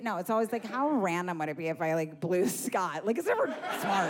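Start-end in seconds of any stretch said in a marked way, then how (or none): 0.7-3.1 mock ditzy voice. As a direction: play the dumb wedding-lady voice. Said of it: "you never hear that voice".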